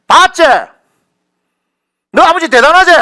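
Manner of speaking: very high, full-voiced yell; loud, exultant acted cry; triumphant shout. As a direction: shout it as a proud boast. Acts God boasting to his children.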